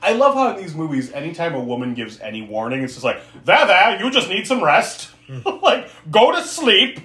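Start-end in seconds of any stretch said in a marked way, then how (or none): 3.4-5.1 high, raised patronizing reassurance; hammed-up "there, there"; mock soothing. Mocks men soothing a warning woman. 6.1-7.0 high, loud, pushy lullaby order; high-pitched patronizing hush; mock soothing command. Mock men hushing a woman.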